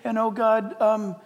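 a praying churchgoer distracted by a sale; mock distracted prayer. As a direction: pray earnestly, then get sidetracked. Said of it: "And then you go to prayer".

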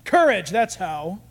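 slow, drawn-out repeat. Retold or imitated. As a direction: savour the word the second time. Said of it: "And he said".

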